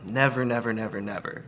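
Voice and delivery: stack the "never"s for emphasis; showing how repeating "never" adds weight; emphatic repetition. Shown as a demonstration. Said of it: "There's more emphasis to it".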